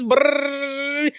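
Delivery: lips trilled like a drum roll; rolled brrr for a drum roll; drum roll sound. Shown as a demonstration. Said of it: "Drum roll, please".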